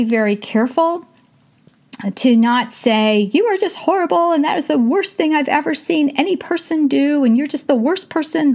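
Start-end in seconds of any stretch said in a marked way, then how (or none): 3.3-8.5 put-on higher, sharper scolding of a child; mock harsh scolding. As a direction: act out a parent tearing into a kid, a bit exaggerated. Mother describing what not to say.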